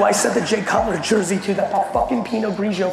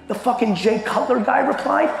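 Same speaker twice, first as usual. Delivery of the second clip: higher and louder, disbelieving question; can't believe it, voice jumping up; incredulous; 5 semitones higher, 3 dB louder than usual. Retold or imitated. Asking his friend if the fan replied, excited disbelief. Guessing the big news.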